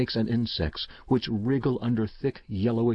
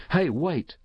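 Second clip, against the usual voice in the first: sudden raised call; shout; 7 semitones higher than usual. A narrator's reading. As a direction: call out after her as she leaves. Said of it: "I shouted".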